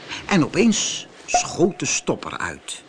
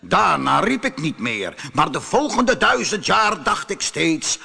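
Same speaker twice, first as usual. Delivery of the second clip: raised, dramatic genie voice; aggrieved genie; 5 semitones higher than usual. Acted. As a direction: tell the old grievance as an imposing spirit. Genie continues his story. (verongelijkte geest die zijn verhaal doet)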